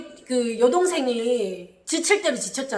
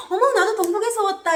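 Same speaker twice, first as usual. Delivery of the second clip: high, loud gushing surprise; chummy, exaggerated exclamation; feigned friendliness; 10 semitones higher, 6 dB louder than usual. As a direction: pretend to be delighted fellow locals. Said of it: "이렇게 친한 척하면서".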